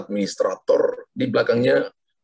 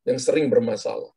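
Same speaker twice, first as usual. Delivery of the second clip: prophetic declaration. Acted. Prophetic word over caller.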